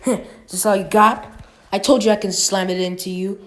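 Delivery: fast cocky taunt. Acted. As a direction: rattle off the taunt, gloating. Naruto taunting Neji.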